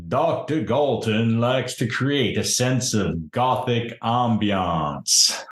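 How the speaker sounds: solemn servant explaining the master's taste; intoning gatekeeper. Acted. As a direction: intone it as a grand gothic doorman. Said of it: "enormous dude who's intoning at you".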